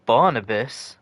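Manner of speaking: Barnabas asked back, loud and incredulous; disbelieving echo. Real, not acted. Gamer echoing the translator, loudly incredulous. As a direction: repeat Barnabas as if you can't believe it. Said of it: "Sounds like you're saying barn and a piss".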